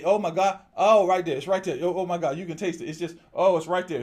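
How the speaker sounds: breathless oh my God, reaching for it; excited longing. Pretend. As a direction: gasp at the water as if it were right there. Craving water right in front.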